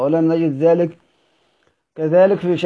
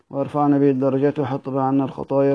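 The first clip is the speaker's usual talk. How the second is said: much softer, low murmured dua; quiet closing prayer; 3 semitones lower, 6 dB quieter than usual. Real, not acted. Teacher ending the lesson with a softly murmured prayer. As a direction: fade into a hushed prayer.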